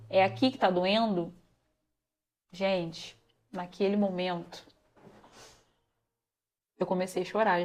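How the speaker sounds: low, very soft voice; sinking into a subdued hush; hushed, grave retelling. Retold or imitated. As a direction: relive it quietly, almost to yourself. Reliving the moment of diagnosis.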